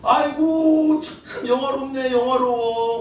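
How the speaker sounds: high, slow sneering drawl; sarcastic mock praise. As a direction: drag out the fake compliment. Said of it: "막 이런 거야".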